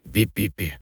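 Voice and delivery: soft squeaky mouse peeps; mouse squeak. Acted. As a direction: peep quickly like a frightened mouse. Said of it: "запищал мышонок и юркнул".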